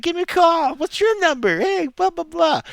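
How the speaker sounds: hammed-up urgent call-out; imitated scrambled calling out. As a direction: mimic kids hollering over each other for numbers. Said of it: "scramble and call out your number".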